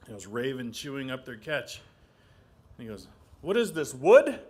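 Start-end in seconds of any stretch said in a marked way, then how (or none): 3.4-4.4 surprised question. Acted. Raven surprised at chewing wood.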